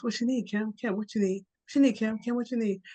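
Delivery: keen little squirrel asking again and again. Acted. Squirrel answers Kim's daily question.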